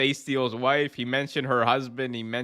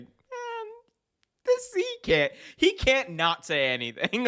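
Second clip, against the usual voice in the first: mock high voice; slower than usual. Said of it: "He was like".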